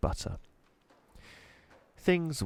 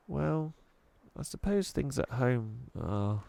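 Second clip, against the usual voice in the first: stammering; 4 semitones higher, 4 dB quieter than usual. Acted. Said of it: "stammered Chloe".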